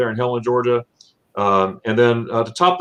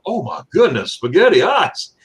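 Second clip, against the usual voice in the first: retold excited exclamation; 6 semitones higher than usual. Wife exclaims in background, retold.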